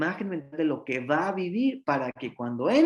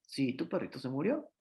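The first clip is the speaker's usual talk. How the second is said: softer, calm confirmation; a hint of a tender parent; gentle parent reply; 6 dB quieter than usual. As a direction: quietly affirm the child's loss. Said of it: "Lo mismo pasa con la muerte".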